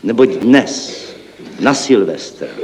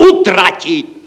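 higher, bright decisive cry; exclaimed; 8 semitones higher, slower than usual. A narrator's reading. Clerk answering the panicked team, exclaiming. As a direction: fire off the answer in triumph. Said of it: "zvolal jsem já".

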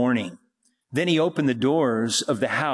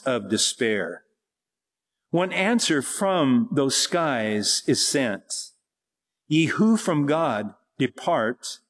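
solemn poem recital. Acted. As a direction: recite it like a hymn from the pulpit. Recites a hymn-poem before teaching.

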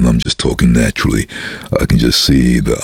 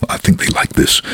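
whispered thought. Real, not acted. Inner thought, unvoiced.

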